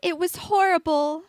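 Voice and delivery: put-on beaming ghost girl. A narrator's reading. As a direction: say it with mock horror and delight. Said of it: "She beamed".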